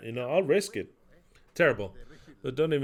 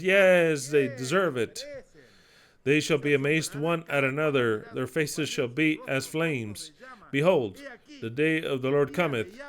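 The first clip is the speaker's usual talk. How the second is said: scripture reading. Acted. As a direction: read the prophecy like a judgment. Reads Isaiah aloud, solemnly.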